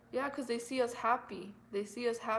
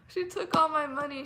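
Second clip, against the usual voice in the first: laughing disbelief; 6 semitones higher, 7 dB louder than usual. Real, not acted. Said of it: "I shouldn't be laughing".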